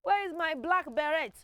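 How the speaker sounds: put-on high child's voice asking Mommy, saying beret with a hard T; whiny child. Teacher mimics a child asking Mommy for the beret, high and whiny. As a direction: play a child whining to mommy about a lost beret. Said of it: "So don't say".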